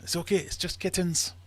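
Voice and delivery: high-pitched dismissive character voice; German soldier. Acted. German soldier dismissing kittens in the sack, high acted voice.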